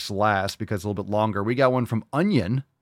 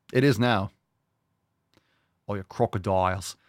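usual speaking voice

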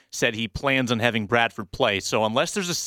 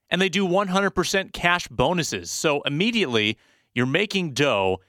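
ad read. Acted. Host reads sponsor ad.

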